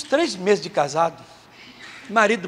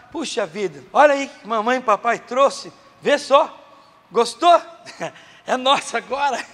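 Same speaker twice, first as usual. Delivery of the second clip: a lightly voiced delighted parent, rising higher; excited parent; 4 semitones higher than usual. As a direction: show off the new toy to the kids. Parents showing kids a new thing.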